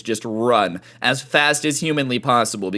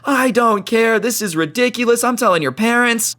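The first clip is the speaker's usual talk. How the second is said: high mock old lady threat; scolding old lady; 11 semitones higher than usual.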